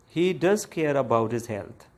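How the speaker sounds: "does" lifted in pitch; emphatic DOES. Shown as a demonstration. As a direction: insist with stress on "does". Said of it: "emphasis on this verb care".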